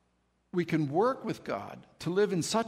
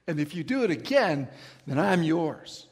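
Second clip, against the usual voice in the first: earnest vow; 5 dB louder than usual. Retold or imitated. Bargaining vow to God.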